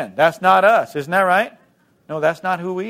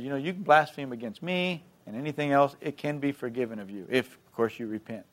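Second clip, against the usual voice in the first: quiet aside; 2 semitones lower, 7 dB quieter than usual. Retold or imitated. Jesus turns to speak to his accusers, quietly. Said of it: "he talked like this, and he said".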